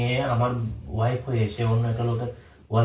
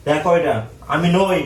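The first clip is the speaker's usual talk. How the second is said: slow, loud, high and spelled out; loud and slow for deaf granny; to someone hard of hearing; 4 semitones higher, 5 dB louder, slower than usual. Acted. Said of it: "ঠাকুমা কি কানে শুনতে পায় নাকি".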